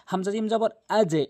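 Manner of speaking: আজে with a bounce that drops downward; qalqala downward bounce. Shown as a demonstration. Teacher showing students a downward bounce on আজে. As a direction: let the জ in আজে jolt downward. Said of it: "এটি নিচের দিকে sound.".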